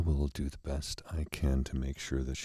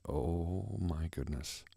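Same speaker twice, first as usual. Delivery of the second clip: hushed dismay; 3 semitones higher, 6 dB quieter, much slower than usual. Retold or imitated. Shocked at cowering dog.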